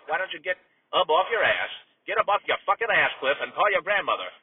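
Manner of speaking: irritation starting to build; exasperated scolding. Acted. Uncle telling his nephew to call grandma, exasperated. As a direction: nag him with growing heat. Announcer berating nephew mid-broadcast.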